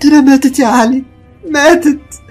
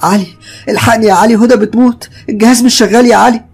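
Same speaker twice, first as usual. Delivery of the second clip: panicked scream; 10 semitones higher, faster than usual. Acted. Wife screaming to Ali as the baby stops breathing, panicked. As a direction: scream for him, terrified for the baby.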